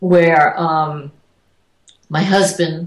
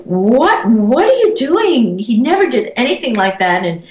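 upset and scared; 4 semitones higher than usual. Retold or imitated. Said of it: "I was so upset and angry".

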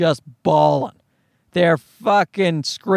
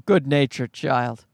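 low, slow, dry echo of praise; dry sarcasm, drawn out; sardonic echo; 5 semitones lower, slower than usual. Real, not acted. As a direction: repeat the compliment slowly with doubt, pitched down.

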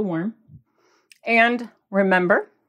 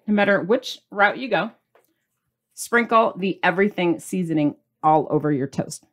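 ordinary delivery

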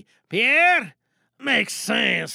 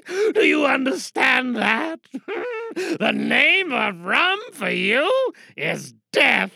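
shouting; 3 semitones higher than usual. Acted. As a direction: bellow it at him. Same warning repeated, shouted.

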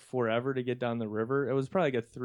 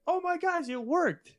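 excited kayaker. Retold or imitated. Kayaker voiced in story.

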